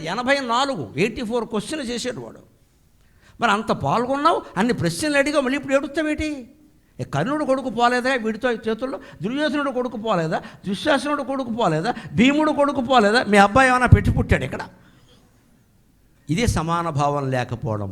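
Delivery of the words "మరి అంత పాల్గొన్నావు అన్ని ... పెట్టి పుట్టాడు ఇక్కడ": raised-pitch volley of rebuking questions; acted scolding. Krishna berating Arjuna for weeping over his son, mock scolding.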